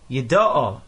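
Yida'o stressed on "da", not the ending; accent toward the beginning. Shown as a demonstration. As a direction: say Yida'o as yi-DA-o, last syllable unstressed. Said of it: "the accent is on the beginning of the word".

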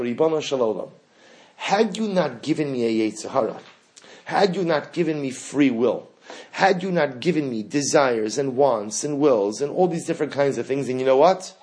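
accusing plea to God. Acted. Pleading with God, holding him accountable.

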